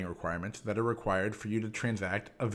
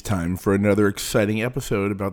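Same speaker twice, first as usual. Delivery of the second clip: loud, hyped cartoon announcer; booming kids show opener; 7 dB louder than usual. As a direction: boom it out like a Saturday morning intro. Cheesy hyped podcast intro.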